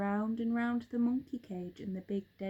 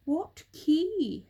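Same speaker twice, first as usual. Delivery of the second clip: higher, loud bird call; bird shouting back; 7 semitones higher, 7 dB louder than usual. A narrator's reading. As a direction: shout down from the roof. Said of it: "shouted the roly-poly bird".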